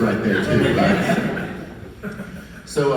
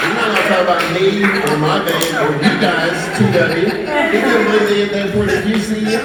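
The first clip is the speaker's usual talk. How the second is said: loud, high fake indignation; mock fury; 9 semitones higher, 5 dB louder than usual. Teasing his buddies, loud mock-furious outburst. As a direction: sell the prank with outrage. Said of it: "play a trick on these guys".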